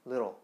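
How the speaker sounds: little said as lero; little with a tapped middle; little, t melted into an r-like tap; flapped t. Shown as a demonstration. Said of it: "이렇게 발음을 하게 되는데".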